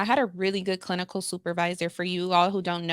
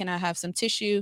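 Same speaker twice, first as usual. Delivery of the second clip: ordinary delivery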